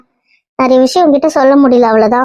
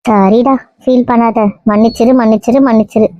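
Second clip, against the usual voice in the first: soothing apology; 3 semitones lower than usual. Acted. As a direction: apologise gently, easing the pace to comfort. Aunt consoles hurt nephew, apologising.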